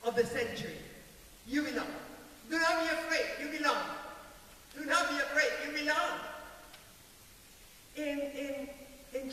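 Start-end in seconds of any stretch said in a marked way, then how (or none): 1.5-6.2 Jesus insisting. Acted. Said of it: "Jesus is saying to them".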